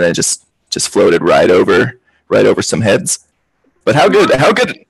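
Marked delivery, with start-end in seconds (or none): 3.8-4.8 high, delighted exclaim; excited. Real, not acted. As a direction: gush about the goal. Cheering the goal.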